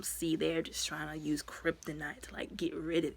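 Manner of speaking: hushed, whispered warning to Superman; whispered scheming. Retold or imitated. Ra's al Ghul manipulating Superman, in a whisper. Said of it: "talking about some".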